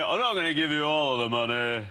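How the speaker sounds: hammed-up bad Scottish accent; badly faked Scottish voice; terrible Scottish accent. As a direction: play a TV investor in awful Scottish. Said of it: "That's the worst Scottish accent".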